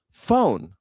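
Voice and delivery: phone drawn out Southern style; mock Southern phone. Shown as a demonstration. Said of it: "people in the South can't say phone".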